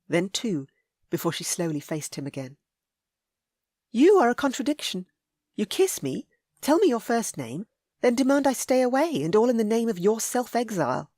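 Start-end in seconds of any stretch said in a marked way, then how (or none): 3.9-11.1 put-on higher, louder frustrated young woman; indignant young lady. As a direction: scold him for his contradictions.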